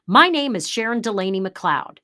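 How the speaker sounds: confident broadcaster introduction; news anchor introducing herself; anchor read. Shown as a demonstration. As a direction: announce your name like a TV anchor. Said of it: "Longer pause".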